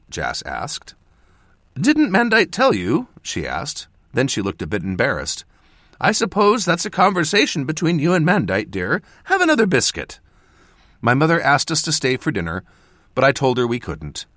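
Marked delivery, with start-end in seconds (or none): 1.8-3.1 high, doting mother voice; fond mother. A narrator's reading. Mother calling to her son across the room, doting and high. 6.0-10.2 high, doting mother voice; fond mother. A narrator's reading. Mother calling to her son across the room, doting and high.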